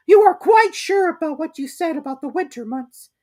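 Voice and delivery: high, anxious little piglet asking; a small worried Piglet checking; Piglet's voice. A narrator's reading. Piglet questions Rabbit.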